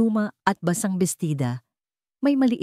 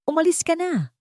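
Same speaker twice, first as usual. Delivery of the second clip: calm warning; 12 semitones higher than usual. A narrator's reading. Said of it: "Mahinahon, pero may babala na".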